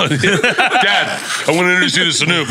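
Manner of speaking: a hint of a teen girl; daughter's voice. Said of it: "daughter introducing a rapper".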